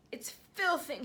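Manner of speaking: giant spluttering through a mouthful. A narrator's reading. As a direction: talk through a mouthful of food. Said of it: "he spluttered".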